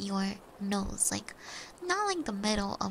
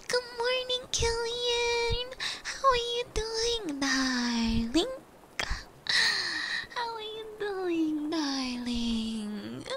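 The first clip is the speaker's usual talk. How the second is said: very high, slow sing-song dropping on darling; drawn-out falsetto hello, swooping down at the end; cooing greeting; 9 semitones higher, much slower than usual. Pretend. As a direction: greet a darling with long gliding vowels.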